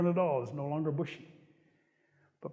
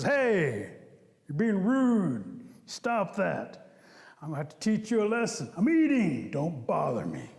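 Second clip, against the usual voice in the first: annoyed Bear; slower than usual. Acted. Annoyed Bear scolds Rabbit.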